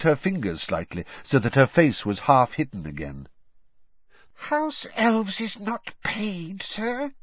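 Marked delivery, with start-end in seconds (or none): 4.3-7.1 slow, high, horrified little elf; muffled squeak. A narrator's reading. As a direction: squeak it as if behind your hands. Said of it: "she said in a muffled squeak".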